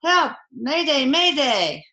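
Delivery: high, loud Mayday call; distress call. Acted. Sinking sub radios for help, high urgent cry. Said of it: "And then on the radio".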